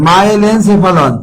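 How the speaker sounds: মাইলেনসেফালন said slowly and evenly; slow dictation. Shown as a demonstration. Teacher to students copying terms, মাইলেনসেফালন slowly. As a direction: give মাইলেনসেফালন slowly so they can write it. Teacher repeats term for note-taking.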